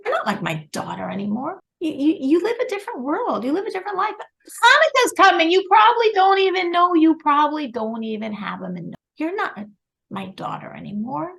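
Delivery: retold scolding, swinging up high; harsh mother. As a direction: act out a mother coldly disowning her daughter, with loud bursts. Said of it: "said a lot of harsh words".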